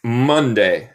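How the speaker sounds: Monday drawn out clearly; slow teaching model. Shown as a demonstration. Teacher reviews weekdays with students, slow clear model. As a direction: say Monday slowly for learners to copy.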